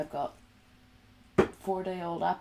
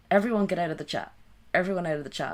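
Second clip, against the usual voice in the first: loud, fast playful command; loud call-out; 2 semitones higher, 6 dB louder, much faster than usual. Pretend. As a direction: shout to clear the room. Shooing chat out, calling out.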